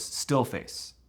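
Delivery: unvoiced, flat demo of the still face; a hushed deadpan still face; mother's still face. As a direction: whisper it blankly, like a frozen mother. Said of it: "the mother goes".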